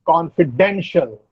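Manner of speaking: "Confidential" with the weight on "den"; stress on DEN. Shown as a demonstration. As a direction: stress the third syllable of "Confidential", con-fi-DEN-shul. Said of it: "the stress is on den".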